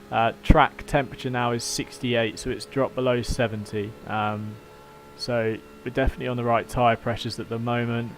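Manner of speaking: lightly done radio race engineer update; calm team radio briefing to the driver. Pretend. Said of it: "Thanks for your Porsche race engineer impression".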